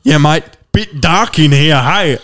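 lightly voiced Aussie local, a bit slow; a hint of broad Australian drawl; mock broad Australian local in a dark toilet; imitating a local bloke. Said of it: "He's definitely a local".

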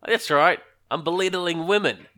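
mock Australian pub-guy voice; Pyro. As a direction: play the loud Aussie bar bloke. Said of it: "one guy who sounds like that".

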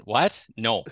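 "No" with a gliding Minnesota O; Minnesota accent. Shown as a demonstration. Mock exchange showing the giveaway word, Minnesotan "No". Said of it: "nailed on when I say no".

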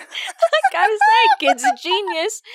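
high, slow amazed exclaim. Real, not acted. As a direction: stretch it out in delighted disbelief. Amazed by kid's spaghetti ornaments.

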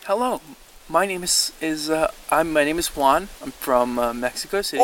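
hammy put-on Mexican accent; a lightly voiced Mexican accent. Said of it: "I wanna be Mexican now".

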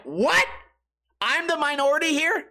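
high-pitched retold disbelief; incredulous. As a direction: voice shoots up, questioning in mock shock. Retells own disbelief at friends.

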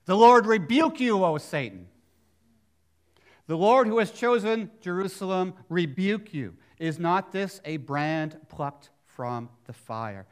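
loud, ringing voice of the Lord rebuking Satan; the Lord rebuking Satan, booming; commanding rebuke. Acted. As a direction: thunder it like a judge on the bench. Preacher voicing the Lord's rebuke.

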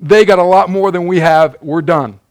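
lightly hammed-up alarm; freaking out. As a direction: playfully act the servant's panic. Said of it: "his servant starts freaking out".

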